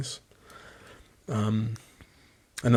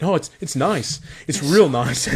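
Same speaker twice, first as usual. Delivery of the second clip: mock fake calm; 5 semitones higher, 5 dB louder than usual. Pretending the cold water is nice.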